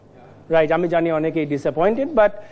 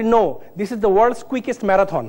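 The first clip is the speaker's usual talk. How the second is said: slow punchline; much slower than usual. Retold or imitated. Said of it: "আমি বলি".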